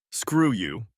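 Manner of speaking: amused retort, barely containing laughter; teasing, a touch of laughter. A narrator's reading. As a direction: say it through a held-back laugh. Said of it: "I couldn't contain the laughter in my voice".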